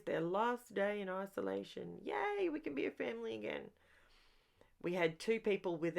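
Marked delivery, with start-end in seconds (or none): 2.0-3.6 bright, quick happy cheer; excited cheer. Real, not acted. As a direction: cheer it out, relieved. Cheer that isolation is ending.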